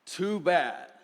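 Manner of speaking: lightly voiced smug stink bug; dismissive stink bug. A narrator's reading. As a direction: brush them off. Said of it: "said the stink bug".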